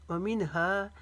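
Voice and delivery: व मिनहा with the last aa stretched; long हा. Shown as a demonstration. Teacher demonstrating madd, व मिनहा ending long. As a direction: hold हा at the end of व मिनहा. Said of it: "लंबा खींचेंगे".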